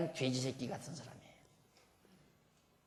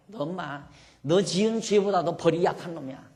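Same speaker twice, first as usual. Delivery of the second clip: pushy revival preacher; 2 semitones higher, 6 dB louder than usual. Retold or imitated. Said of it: "부흥사들이 하는 말 막 밀어붙이듯이".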